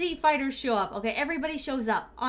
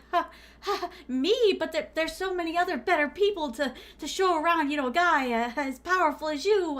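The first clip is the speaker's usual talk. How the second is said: nervous squeak; 4 semitones higher, 3 dB louder than usual. Retold or imitated. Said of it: "And he's like".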